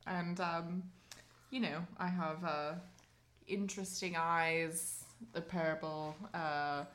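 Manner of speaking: soft, languid "darling" star; tipsy grande dame. Acted. Aging star introducing herself to a bouncer, tipsy grande dame. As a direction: play an eighty-seven-year-old champagne diva. Plays an eccentric drunk star.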